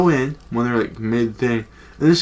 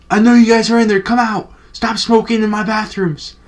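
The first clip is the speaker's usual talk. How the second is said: high, loud, bossy yell through the stall door; hammed-up order to come out of the stall; mock security guard yelling; 9 semitones higher, 5 dB louder than usual. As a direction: bust them like a self-important guard. Security guard busting friends in bathroom.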